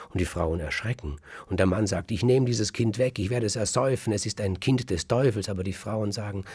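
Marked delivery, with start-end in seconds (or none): 2.1-5.5 raised, higher threatening voice; a husband's raised, furious threat; angry threat. Acted. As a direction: rail at the wife over the devil's child. Husband threatens to drown changeling.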